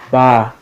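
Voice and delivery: BA-NA-NA in three separate beats; syllable by syllable. Shown as a demonstration. Teacher counting syllables in a word, BA, NA, NA separated. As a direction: say Ba-na-na with a pause after each syllable. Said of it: "nod my head three times".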